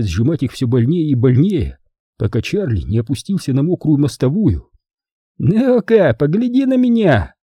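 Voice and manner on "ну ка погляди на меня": commanding. Acted. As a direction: order him to look. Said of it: "скомандовал Манфред".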